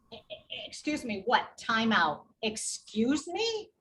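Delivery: stammering, then a rising incredulous excuse me; halting, caught off guard, then challenge it; stunned disbelief. Retold or imitated. Nurse stunned by the driver's dismissive claim, incredulous.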